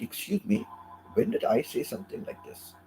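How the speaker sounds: high, mock-offended "Excuse me"; indignant reply. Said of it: "immediately I have to write back".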